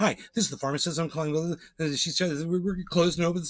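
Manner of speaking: rushed, as fast as possible. Imitating a pharmacist's phone message to the speaker's mom, talking as fast as possible. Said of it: "trying to talk as fast as she can".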